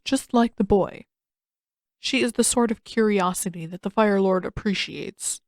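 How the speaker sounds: lightly voiced unhurried elder; calm old Uncle. Uncle explaining to the crew, calm lightly voiced old man. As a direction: settle the crew calmly.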